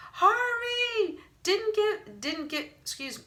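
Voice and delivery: high panicked yell. A narrator's reading. Wendell fleeing in panic, high yelling. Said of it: "yelling at the top of his lungs".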